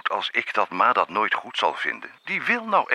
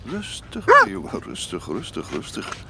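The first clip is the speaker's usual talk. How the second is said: calming the dog. Acted. Father calming the excited dog.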